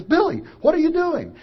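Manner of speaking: high, loud big brother calling out; mock big brother shout; big brother's call. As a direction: call across the room like a bossy older kid. Big brother voiced in story.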